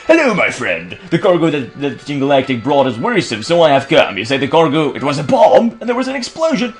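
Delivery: lightly voiced theatrical investigator; earnest detective character. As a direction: play a detective piecing it together aloud.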